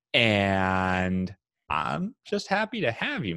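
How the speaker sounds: measured show-opening delivery; podcast host intro. Acted. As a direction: welcome the listeners and present the guest.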